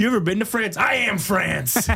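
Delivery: lightly voiced Tan France; playful mock Tan France; Tan France bit. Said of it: "my Tan France impression".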